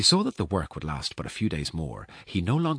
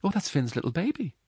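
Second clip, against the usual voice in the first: foster mother; 13 semitones higher than usual. Acted. Woman explains the cradle to giant.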